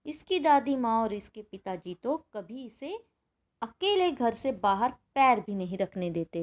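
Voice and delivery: measured textbook narration with lightly voiced dialogue; story reading. A narrator's reading. Teacher reading the mother's reply to pupils, measured story reading. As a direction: read the mother's words as part of the story.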